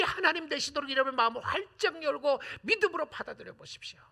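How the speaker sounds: high, loud impassioned appeal; preaching at full force. Real, not acted. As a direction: plead with the congregation, full voice. Climactic exhortation. (회중에게 온 힘으로 호소하는 설교)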